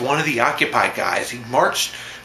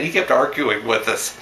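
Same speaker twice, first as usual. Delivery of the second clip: ordinary talk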